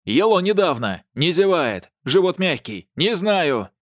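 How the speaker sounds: high, loud, desperate list; loud frantic outburst; frantic shouting. A narrator's reading. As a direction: yell each point, at wits' end. Flustered father yells list.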